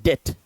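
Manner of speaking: डेट said "det" with no B; silent B. Shown as a demonstration. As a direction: drop the B completely in डेट, "det". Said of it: "बी जो है वो silent".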